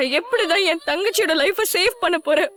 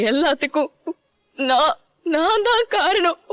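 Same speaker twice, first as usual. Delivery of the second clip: tearful. Acted. Blaming herself through tears.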